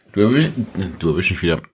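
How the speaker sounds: talking through a mouthful of beer; mouth full. Real, not acted. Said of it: "Du erwisch mich wieder mit vollem Mund".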